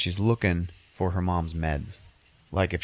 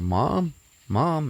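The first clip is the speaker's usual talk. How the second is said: higher-pitched, tentative imitated call; 7 semitones higher than usual. Daughter at her mom's shut bedroom door, imitated calling out. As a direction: call through a door without shouting.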